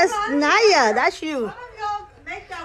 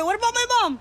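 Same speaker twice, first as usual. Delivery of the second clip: voicing the baby; 6 semitones higher, much faster than usual. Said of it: "Y le dice".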